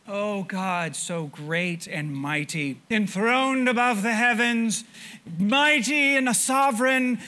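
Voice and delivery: lofty worship words, rising to loud at the end; mock grand prayer. Preacher mocking lip-service worship, in a mock grand prayer voice. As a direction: ham up an empty, flowery prayer. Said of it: "we can go on and on like that".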